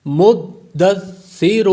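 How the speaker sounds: مدثر recited slowly, tha without a whistle and a firm dal; tajweed recitation. Shown as a demonstration. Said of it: "سا پر سیٹی کی آواز پیدا نہیں ہوگی".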